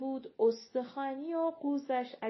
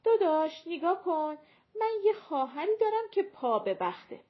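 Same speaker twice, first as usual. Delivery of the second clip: imagined plea to brother; 7 semitones higher, 7 dB louder than usual. Retold or imitated.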